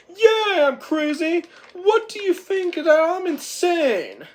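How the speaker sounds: high, loud manic boast; wild brag. Retold or imitated. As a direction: crow it like a maniac. Whiplash brags wildly.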